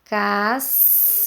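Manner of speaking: "Cas-" with a long hissed final S; snake-like S. Shown as a demonstration. Teacher showing children the snake sound, hissed S. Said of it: "olha o som da cobrinha".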